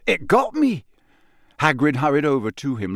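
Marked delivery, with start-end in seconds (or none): 0.1-0.8 higher, louder cry of hurt; boy showing his burnt hand; pained yell. Acted. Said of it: "yelled Dean Thomas".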